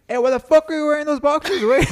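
high, loud mock-indignant buddy voice; Javi impression. Buddy questioning his friend's boxers, high put-on voice. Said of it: "He's like".

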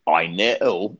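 imitated Cockney preacher; a rough attempt at a Cockney accent; Eddie's Cockney accent. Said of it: "he had a Cockney accent".

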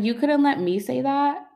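high, loud laughing protest; half-laughing, exasperated protest; laughing disbelief. Retold or imitated. Brother outs her first.

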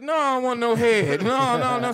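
loud, high mock-panicked protest; hammed-up yelping objection; frantic refusal. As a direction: act out refusing in a comic panic, pitch way up. Retold frantic refusal to masseuse.

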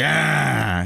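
throaty, drawn-out angry rapper cry; mock mad "ah". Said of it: "He's mad".

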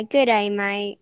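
put-on Australian accent. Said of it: "in their Australian accent".

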